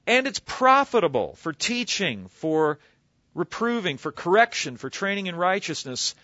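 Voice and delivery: lifted, declaiming scripture reading; reading scripture aloud. Acted. Preacher reading the verse to the congregation, declaiming. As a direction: read the verse out with weight. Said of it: "He says".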